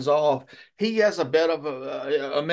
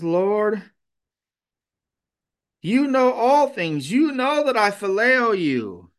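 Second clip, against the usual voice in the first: higher, louder exasperated plea; exasperated Peter; 4 semitones higher, 4 dB louder than usual. Acted. Peter answering Jesus's third question, exasperated. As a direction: Peter pleading, worn down by asking. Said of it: "he's maybe a bit exasperated".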